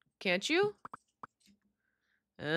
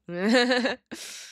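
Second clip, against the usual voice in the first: short nervous giggle; nervous laugh; 3 semitones higher, 4 dB louder than usual. Real, not acted. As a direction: giggle nervously before failing. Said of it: "That was my nervous laughter".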